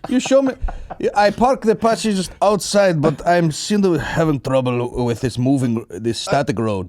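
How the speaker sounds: lightly put-on foreign accent; puzzled Taliban pilot. Apache pilot asking about the treadmill, in a mock accent. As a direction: imitate a baffled gym newcomer in broken English.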